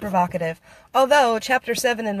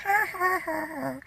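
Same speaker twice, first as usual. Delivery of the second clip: laughing; 7 semitones higher, 6 dB quieter than usual. Real, not acted. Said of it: "laughing with the horrible laugh".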